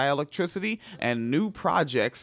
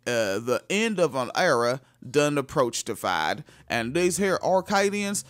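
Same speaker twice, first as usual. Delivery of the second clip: mock Scottish accent. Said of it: "that is how it is done".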